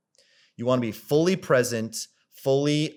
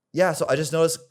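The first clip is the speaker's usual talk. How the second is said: nervous; 6 semitones higher, 4 dB louder, faster than usual. Shown as a demonstration. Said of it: "Do you see that change there? I start off nervous".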